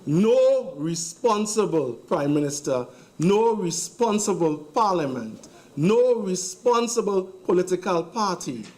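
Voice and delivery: slow, emphatic repeated phrases; slow and deliberate. Real, not acted. MP building a case against the government, slow and deliberate. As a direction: lean on each NO, drawn out. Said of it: "I'll say it slowly".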